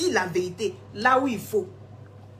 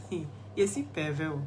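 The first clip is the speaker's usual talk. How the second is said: laughing; 6 semitones lower, 8 dB quieter than usual. Real, not acted. Teasing laugh about pervert remark.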